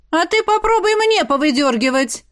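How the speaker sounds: a challenge thrown back at a bully; defiant challenge. Acted. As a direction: dare her to try. Friend defiantly challenges Prina.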